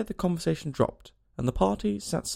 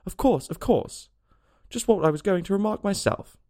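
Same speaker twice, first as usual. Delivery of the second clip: sleepy Dormouse; 6 semitones higher than usual. A narrator's reading. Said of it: "without opening its eyes".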